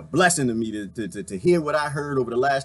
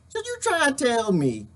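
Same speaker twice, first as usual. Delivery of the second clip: hillbilly voice; 5 semitones higher than usual. Acted. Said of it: "I'm gonna call him Jeffro".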